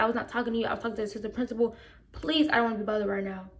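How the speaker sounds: calm. Retold or imitated. Student to coach while addressing the assistant principal, calm. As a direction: restate it quietly, keeping composed. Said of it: "I was talking in my calmest voice".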